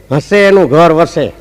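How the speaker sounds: slow proverb with a laugh. Retold or imitated. Raju answers the narrator with the proverb, laughing. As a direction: deliver the punchline chuckling.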